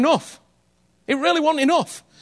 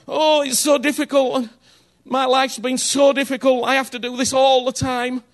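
mock martyr whine. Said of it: "I call those martyrs for Jesus".

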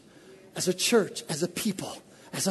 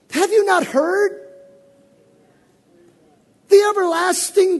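much higher, slow and loud; thundering prophetic declaration; rising preacher's cry; 9 semitones higher, 5 dB louder, slower than usual. Acted. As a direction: build to a proclaiming cry.

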